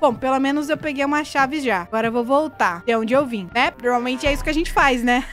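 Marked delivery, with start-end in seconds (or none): none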